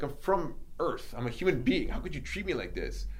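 retold incredulous outburst; indignant protest. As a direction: plead your humanity, affronted. Protesting his treatment to the men.

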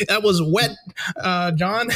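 cheesy sports announcer call; corny broadcaster commentary; white announcer voice. Shown as a demonstration. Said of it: "white announcer voice".

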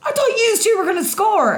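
high, loud teasing yell; group shout. Retold or imitated. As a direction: shout it like the whole table teasing. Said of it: "everyone at the table started going".

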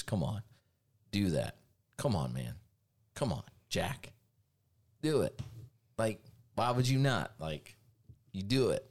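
a light mumbling Joe Biden take; lightly voiced Joe Biden, coaxing; an easygoing coaxing old president, barely changed; Joe Biden impression. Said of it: "That's my Joe Biden impression".

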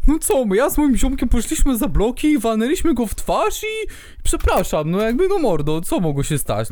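casual bro shrugging it off; high, careless street-kid voice; carefree dude voice. Retold or imitated. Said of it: "miał takie".

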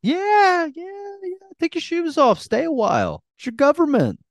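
high falsetto creepy propaganda voice; dystopian announcer. Pretend. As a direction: lull the public, eerily sweet.

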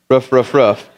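"roof" repeated short, like "ruff"; mild mock barking; imitated dog bark. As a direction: say "roof" as a dog's woof. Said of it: "that's what a dog says".

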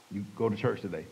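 low, soft instruction; a quiet nudge inside the mind; voice of conscience. Retold or imitated. God speaking to his conscience, low quiet prompting. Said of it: "he spoke to my conscience".

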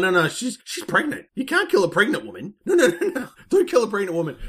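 high laughing plea at the screen; mock pleading. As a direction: beg the film not to do it, half laughing. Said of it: "I'm going".

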